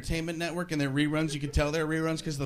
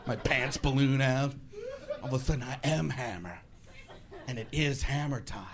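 deadpan; 5 semitones lower, 6 dB quieter than usual. Acted. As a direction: state it soberly, pitch dropped. Awkward deadpan line about a rapper.

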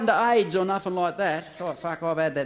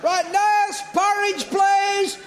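much higher, loud call down the ward; shouted order; 14 semitones higher, 5 dB louder, much slower than usual. Acted. Doctor shouts to the nurse for porridge, loud call. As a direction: bellow for the nurse.

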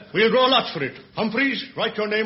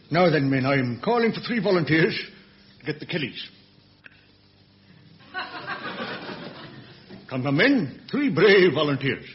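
gruff low commander; 5 semitones lower than usual. Acted. Inspector barking orders at men.

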